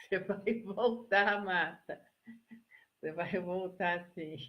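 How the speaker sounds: loud, laughing reply to a viewer; amused reassurance. Real, not acted. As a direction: tell her emphatically, through a laugh. (resposta animada, rindo)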